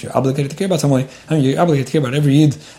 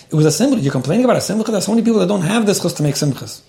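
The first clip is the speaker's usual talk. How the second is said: indignant rebuke; 6 semitones higher, faster than usual. Retold or imitated. Someone scolding a venting person, indignant reproach. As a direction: shame him for complaining about a blessing. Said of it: "I just had this recently with somebody".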